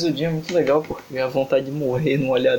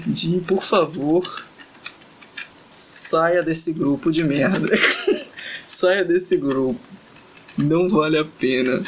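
very slow, drawn out with long pauses; slow dictated plea; much slower than usual. Pretend. Dictating a message to Jin for the translator, slow and deliberate. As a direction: dictate it word by word, stretching each phrase. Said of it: "eu vou tentar falar aqui em coreano".

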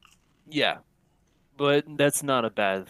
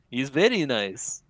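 laughing mock resident; 2 semitones higher, 4 dB louder than usual.

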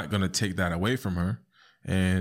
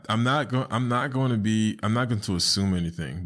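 ordinary talk

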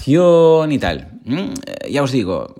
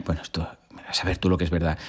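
quick whispered aside, much softer; 8 semitones lower, 9 dB quieter, faster than usual. Real, not acted. Teacher doubts the legend and whispers bueno, esto to viewers.

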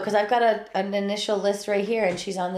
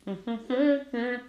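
idle humming; 3 semitones higher, 4 dB quieter than usual. Real, not acted. Hums to fill time alone.

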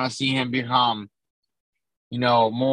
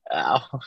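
pained ow. Real, not acted. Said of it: "I just hit myself right in the sternum".

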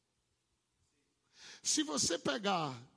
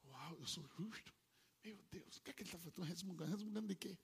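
mock grumbling; 2 semitones lower, 12 dB quieter than usual. Voicing inner grumbling thoughts.

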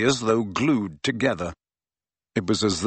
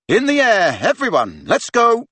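calling out; 10 semitones higher, 5 dB louder than usual. Acted. Captain calling the team.

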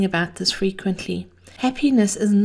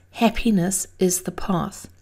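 breathy whispered quote; breathy vintage purr. Real, not acted. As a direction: hush it like a secret. Whispered Buddha quote, intimate podcast.

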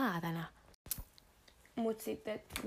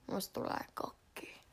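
whisper; 6 dB quieter, slower than usual. Shown as a demonstration.

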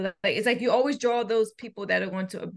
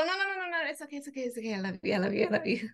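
mock pleading; 3 semitones higher, 4 dB quieter, much faster than usual. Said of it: "You guys hit and go".

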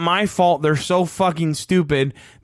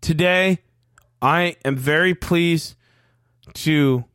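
stiff second-grader reading a cue card; stilted, wooden announcement; mock cue-card reading; 3 semitones lower than usual. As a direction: read it like a kid at the front of class. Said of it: "sounding like this".

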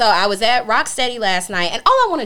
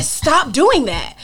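drawn-out, slightly higher telling-off; retold firm rebuke; 4 semitones higher, much slower than usual. Telling a friend how she objected, drawn-out rebuke.

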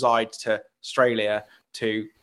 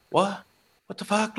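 high, laughing "what the fuck"; reliving the shock of being recognised, half laughing; stunned disbelief; 8 semitones higher, 3 dB quieter than usual. Retold or imitated. Podcaster recalling fans recognising him, laughing disbelief. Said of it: "And I'm like".

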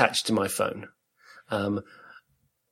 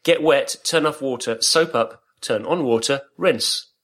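mock German accent, reading out the listener's soap instructions; a hammed-up German accent, step by step; fake German accent; 2 semitones higher, slower than usual. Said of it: "the fake German accent".

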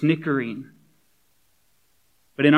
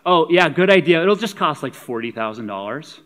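mock-bright sarcastic agreement, louder; sarcastic Philip; 2 semitones higher, 4 dB louder than usual. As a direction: fake enthusiasm that drops at the price. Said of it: "doesn't even acknowledge the sarcasm".

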